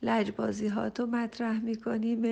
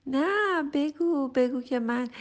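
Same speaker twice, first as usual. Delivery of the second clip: insistent; 4 semitones higher, 5 dB louder, slower than usual. Real, not acted. Insisting the parent say it.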